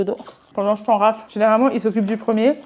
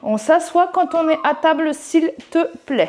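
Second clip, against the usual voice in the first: higher, insistent parent correction; firm repeated order; 6 semitones higher than usual. Real, not acted. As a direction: say it again, firmer this time. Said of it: "je vais pas me répéter".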